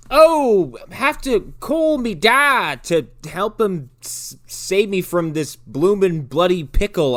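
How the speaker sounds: high, drawn-out fake-Scottish wail; loud high start, then slow put-on plea; mock girl in peril. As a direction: imitate a little girl calling for help, hammed-up. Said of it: "running from physical peril going like".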